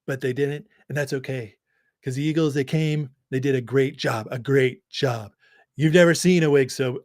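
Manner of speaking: a hint of Trump's boastful rally talk; Trump impression. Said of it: "So let me do this impression".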